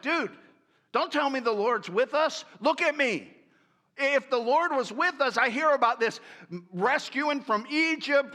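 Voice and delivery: mild whiny outburst, voice pushed up; whining Gideon. Acted. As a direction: protest like an aggrieved young man. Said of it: "he's kinda whining".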